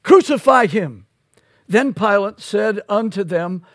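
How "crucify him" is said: loud cry of the mob; crowd cry. Retold or imitated. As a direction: call it out like the crowd. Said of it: "they were crying out".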